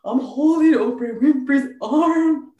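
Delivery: starstruck squeal. Retold or imitated. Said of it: "I was like".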